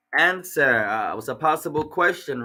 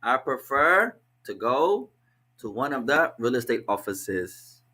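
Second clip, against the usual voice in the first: 1 slow translation. Shown as a demonstration.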